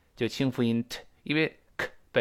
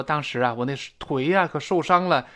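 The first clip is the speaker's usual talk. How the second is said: mock pained complaint; 5 semitones higher, 4 dB louder than usual. Speaker telling about his injured leg.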